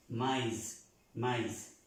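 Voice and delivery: "maíz" with the i fully pronounced; separately sounded I. Shown as a demonstration. Teacher shows what the trema does, normal i in "maíz". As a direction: model "maíz" as ma-is, never mes. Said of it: "se pronuncie normalmente".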